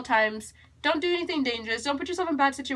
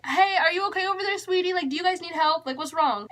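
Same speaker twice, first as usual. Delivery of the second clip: lightly voiced worried stranger, pitched higher; a hint of a kind lady checking in; concerned lady; 5 semitones higher than usual. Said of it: "she's like".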